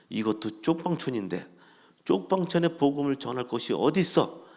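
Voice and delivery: retold abusive tirade. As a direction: start mildly scornful, end in an accusing shout. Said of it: "막 욕을 하더라고요".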